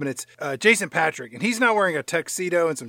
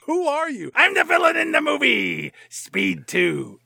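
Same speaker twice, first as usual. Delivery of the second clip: much higher mock villain voice; 9 semitones higher, slower than usual. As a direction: squeak it out like a cartoon villain.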